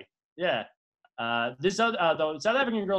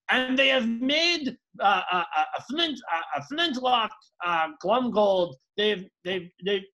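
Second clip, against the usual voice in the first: mock Afrikaner accent. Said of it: "or I don't know, however they sound".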